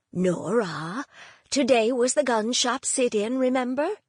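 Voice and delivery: a hint of a singsong Norwegian accent; lightly lilting Norwegian grandmother. Grandmother reminds Nora of the sit-in, light Norwegian lilt. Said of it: "in the light Norwegian accent".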